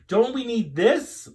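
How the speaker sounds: put-on high and loud little girl; bright child voice. Rachel to Missus Greenberg, eager little girl voice. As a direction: ask it like an eager kid.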